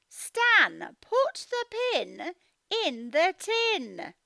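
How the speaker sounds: slow, firm mum instruction; lightly voiced mum. Mum telling Stan slowly, in a lightly firm voice. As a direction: give a slow, firm order.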